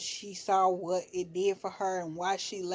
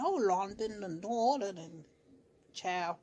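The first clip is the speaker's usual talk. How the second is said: bad London accent. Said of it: "I cannot do a London accent".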